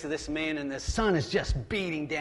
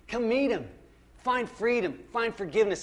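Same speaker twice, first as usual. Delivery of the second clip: 1 joyful invitation; 6 semitones higher, 4 dB louder than usual. Real, not acted.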